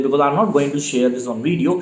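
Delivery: usual speaking voice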